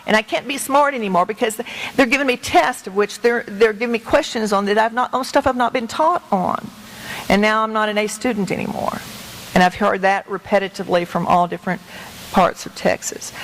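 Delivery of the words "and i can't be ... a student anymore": put-on retelling a little boy's despair, mild; a hint of a hurt nine-year-old; quoting a crying child. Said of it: "he said".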